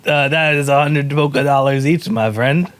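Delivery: friendly trader, loosely Scottish; attempted Scottish accent. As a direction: quote a price in mock Scottish. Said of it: "I was trying to do Scottish".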